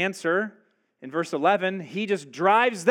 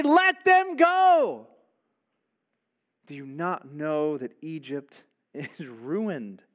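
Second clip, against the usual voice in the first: pleading cry; slower than usual. Acted. Servants' plea retold.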